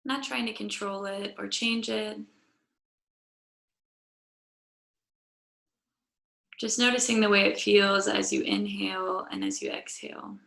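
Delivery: calm, measured guiding voice with long pauses; guided yoga meditation. Real, not acted. Yoga teacher settling the class onto their mats, calm guided meditation. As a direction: lead them gently into noticing the breath.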